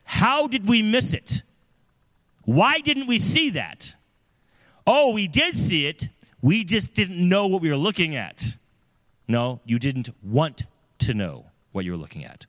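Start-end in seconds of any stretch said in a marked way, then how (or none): 0.0-8.6 dismayed congregation. Acted. Congregation after the pastor's scandal, in loud, high mock dismay. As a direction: protest loudly as bewildered churchgoers, pitched up. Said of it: "do the people say".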